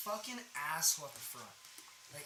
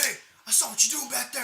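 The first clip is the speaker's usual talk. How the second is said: higher, louder mock call-out; customer calling out; 7 semitones higher, 10 dB louder than usual. Angry customer catching the worker, loud mock call-out. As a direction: call him out from the front counter. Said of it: "he's like".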